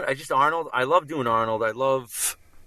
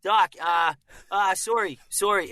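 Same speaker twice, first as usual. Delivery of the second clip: put-on high young film-hero voice from the back of the throat; higher, hesitant, with a little vocal fry; slight Canadian tinge, pitched up; Michael J. Fox; 5 semitones higher than usual. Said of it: "the way I always broke down his voice".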